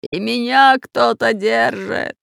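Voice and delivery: slow, loud snarl; furious at being held; angry growl. A narrator's reading. Pirate Bulbul growling in anger. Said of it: "злобно зарычал пират".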